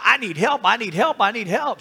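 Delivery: insistent chant-like plea for help; retold crying out. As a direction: mildly imitate a woman crying out. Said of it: "was crying out to Elisha".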